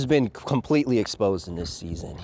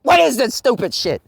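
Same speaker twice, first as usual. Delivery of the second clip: mock disbelief; 10 semitones higher, 5 dB louder than usual. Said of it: "And it's just like".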